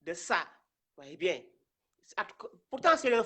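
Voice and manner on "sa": "sa" with an open A, not O; plain A sound. Shown as a demonstration. Teacher giving the reading to avoid, open "sa". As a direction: say "sa" with a plain A vowel. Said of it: "au lieu de".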